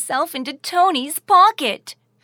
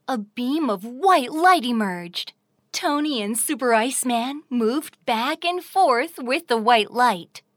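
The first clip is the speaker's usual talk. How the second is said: ordinary delivery, nothing marked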